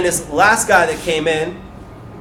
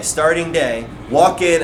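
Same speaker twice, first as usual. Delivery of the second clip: usual speaking voice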